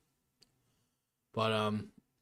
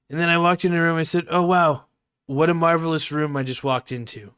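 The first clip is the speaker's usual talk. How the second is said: louder, higher Trump; Shane Gillis Trump impression; 3 semitones higher, 5 dB louder than usual. Streamer redoing comic's Trump bit, louder. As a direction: marvel at the room as Trump. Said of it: "the Shane Gillis impression".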